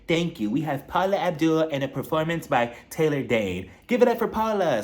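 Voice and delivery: lightly put-on charity hostess voice; mock hostess speech. Hostess thanks foundation guests, mock speech voice. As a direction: imitate someone giving a long-winded thank-you speech. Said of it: "gives a long-winded speech, and she's like".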